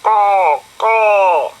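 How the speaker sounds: high loud cawing bird call; loud high crow cry. Acted. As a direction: caw like a crow up a tree. Crow calls from tree.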